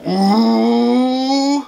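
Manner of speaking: high giddy laughter; gleeful laughing. Acted. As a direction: cackle with glee. Gleeful after quitting.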